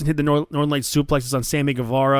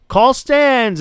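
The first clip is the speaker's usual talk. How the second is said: higher, louder flat verdict; firm ruling; 10 semitones higher, 4 dB louder than usual. Retold or imitated. Referee coming back with the replay ruling: firm verdict. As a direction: deliver the verdict with finality. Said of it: "She's like".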